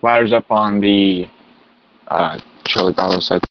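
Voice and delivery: radio voice. Acted. Engine reporting over radio.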